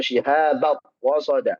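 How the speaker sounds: "wasoda" with w in place of r; r turned to w. Shown as a demonstration. Teacher imitating the wrong reading. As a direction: swap the r for a w.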